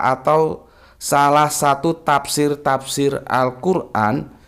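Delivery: reading a viewer's greeting on air; slow comment reading. Acted. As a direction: read each word of the greeting carefully.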